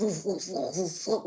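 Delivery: guttural rush of throat noise imitating French; mock French throaty noise. Shown as a demonstration. Showing how French speak with the tonsil, mock guttural noise. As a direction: make mock-French rasping sounds from the throat. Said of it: "French had a heavy accent".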